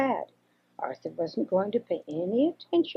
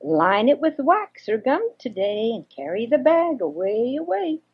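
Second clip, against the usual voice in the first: chattering squirrel; 4 semitones higher than usual. Acted. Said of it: "chattered merrily".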